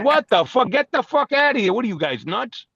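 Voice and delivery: high-pitched retold outburst; mock outraged and bewildered; incredulous friend. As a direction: act out a friend's disbelief. Friend's outraged reaction, acted.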